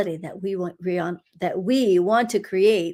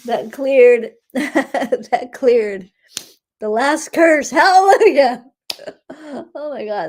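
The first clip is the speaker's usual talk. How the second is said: higher and louder, laughing joy; elated; 6 semitones higher, 9 dB louder, slower than usual. Real, not acted. Healer telling the group the last curse cleared, elated and loud. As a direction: announce the victory with glee.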